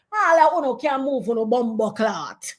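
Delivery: put-on defiant Jamaican-accented cussing; Jamaican patois. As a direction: retort in thick Jamaican patois. Retort switching into Jamaican patois.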